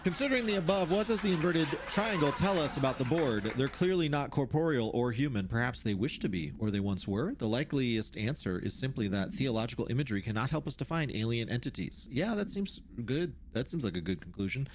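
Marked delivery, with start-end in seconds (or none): 0.1-12.1 measured, formal reading voice; document read-aloud. Acted. Researcher reads out notes on the oldest house, formal read-aloud.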